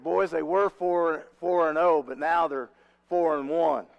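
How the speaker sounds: loud, deliberate retold announcement; pointed coach's jab. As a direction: announce it to the boys so the rivals overhear. Coach's parting jab within earshot.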